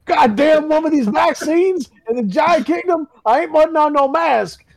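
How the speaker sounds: giant hick voice. Pretend. Voicing the giant anti-vaxxer.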